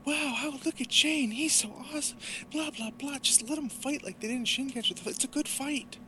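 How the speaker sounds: high, excited, mocking commentary; high excited commentator parody. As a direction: gush over the fight like a fangirl announcer. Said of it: "started doing commentary".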